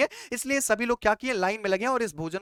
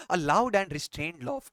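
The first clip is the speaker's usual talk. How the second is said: very slow, word by word; slow dictation; 4 semitones lower, 3 dB quieter, much slower than usual. Shown as a demonstration. Teacher dictating the definition to students, very slowly. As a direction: read it out slowly so students can write. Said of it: "बेली laugh".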